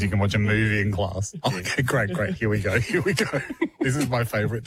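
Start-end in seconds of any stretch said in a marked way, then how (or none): 1.5-3.4 acted excited pupil. Pupil hearing there's a movie in class, mock excitement. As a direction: play a giddy student, lightly hammed-up.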